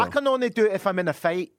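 lightly combative Glaswegian accent; put-on Glasgow accent. Shown as a demonstration. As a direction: slip into a pretend Glasgow accent. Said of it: "can you do Glasgow?".

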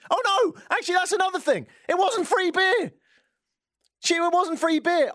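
high, comic outrage; indignant outburst. Acted. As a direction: erupt at a remembered slight. Sudden indignant recollection of paid beer.

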